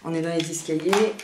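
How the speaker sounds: echoing stairwell; speaking in a resonant stairwell; hallway echo. Real, not acted. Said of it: "et ça résonne un peu ici".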